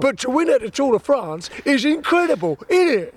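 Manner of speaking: playful London interviewer voice; cheeky Cockney interviewer; London accent Seb. Acted. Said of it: "I'll be Seb".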